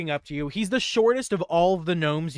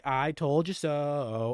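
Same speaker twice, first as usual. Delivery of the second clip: smug; much slower than usual. Acted. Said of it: "he's just like".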